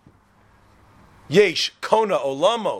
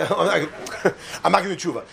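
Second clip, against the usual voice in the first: laughing quote; faster than usual. Retold or imitated. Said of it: "He's like".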